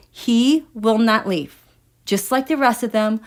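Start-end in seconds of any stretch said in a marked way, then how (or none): 0.1-1.6 "He will not leave" slow and loud, every word separate; weighted insistence. Real, not acted. Host repeating that Boris won't go, slow firm insistence.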